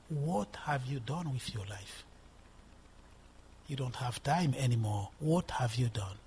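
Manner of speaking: low, subdued voice of a nagging accuser; lightly voiced devil. Devil reproaching the preacher about his life, lightly voiced low accuser. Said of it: "the devil suggesting things to you".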